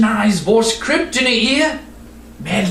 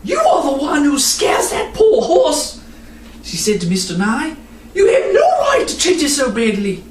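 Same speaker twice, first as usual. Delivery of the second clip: put-on angry girl; 4 semitones higher than usual. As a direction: stand up to him in anger. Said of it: "she was also angry".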